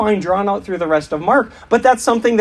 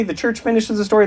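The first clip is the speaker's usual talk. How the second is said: quick run-through; 2 semitones higher, faster than usual. Shown as a demonstration. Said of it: "Let's say that together".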